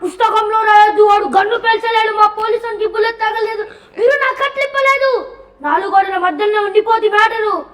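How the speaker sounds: hammed-up film hero. Acted film dialogue, louder.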